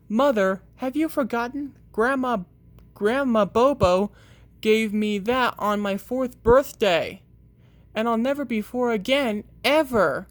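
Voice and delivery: high, mock-tragic pleading; child hamming it up to keep his bunny; dramatic. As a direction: play it as a small tragedy. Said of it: "Don't be so dramatic".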